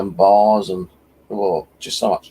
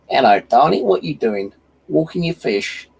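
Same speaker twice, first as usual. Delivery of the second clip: put-on higher, sweet old lady voice; 5 semitones higher than usual. Old lady calls out to the magnet fisher, higher and sweet. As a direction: imitate a chatty old lady, pitched up. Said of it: "this old biddy comes up and goes".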